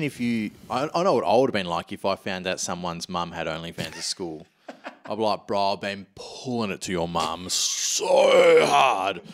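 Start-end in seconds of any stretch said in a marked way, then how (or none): 5.5-9.2 slow, shouted jeer; hammed-up bully shout; mock schoolyard taunt. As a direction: drag out a crude taunt as a yell.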